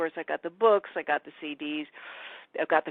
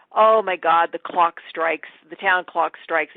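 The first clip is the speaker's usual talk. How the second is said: startled; 7 dB louder than usual. Retold or imitated. Girl startled by clock.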